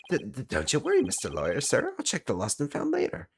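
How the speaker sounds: stammering, high-pitched New York voice; bad New York accent. Caretaker fobs off the lawyer, stammering bad New York accent. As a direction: stall nervously in a mock New York accent. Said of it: "my bad New York accent".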